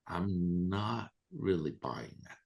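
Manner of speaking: slow, doubtful reply after a sigh; retold scepticism. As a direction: draw the words out slowly, unconvinced.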